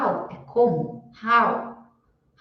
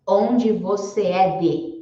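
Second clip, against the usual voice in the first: "Onde você é de?" said slowly, stressing "onde"; slow mock-wrong "Onde você é de?"; wrong word order; much slower than usual. Shown as a demonstration. Teacher showing the wrong literal order, slowly. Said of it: "Não, não tô falando isso".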